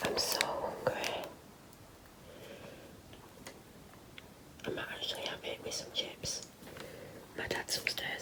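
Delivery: whispered voice. Talking while the speaker's dad is upstairs, whispering. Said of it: "that's why I'm whispering".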